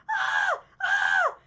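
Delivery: high, loud mock scream; retold screaming. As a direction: imitate a kid screaming after a fall. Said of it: "screaming and yelling and crying".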